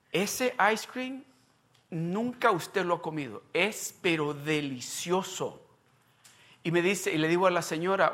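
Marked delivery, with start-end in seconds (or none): 0.1-5.6 savoring emphasis. Real, not acted. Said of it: "déjeme decirle algo".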